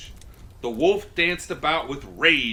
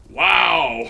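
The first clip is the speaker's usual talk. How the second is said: surprised wow; 3 semitones higher, 9 dB louder than usual. Real, not acted. Reacting to story ending.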